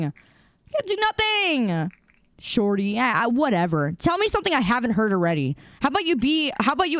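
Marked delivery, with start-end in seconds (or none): 0.0-1.9 slow taunt. Acted.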